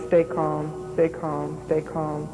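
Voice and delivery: imitating a lightly deadpan, monotone voice. Someone at her head on the exam table, imitated deadpan monotone. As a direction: repeat it evenly, without emotion, as if quoting him. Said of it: "saying in a real deadpan, monotone voice".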